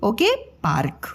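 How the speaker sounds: slow, careful पार्क with the half र clear; teacher spelling out पार्क for children; model word. Shown as a demonstration. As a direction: say पार्क slowly, letting the र glide into क. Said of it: "इसीलिए वो आधा र क के ऊपर रेफ के रूप में आ जाता है।".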